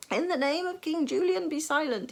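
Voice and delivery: loud, high command; insistent command. A narrator's reading. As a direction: shout her down in the king's name. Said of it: "he insisted".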